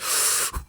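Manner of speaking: long airy sigh to sober up; steadying sigh. Retold or imitated. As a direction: blow out a breath to pull yourself together. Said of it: "Deep breath, deep breath".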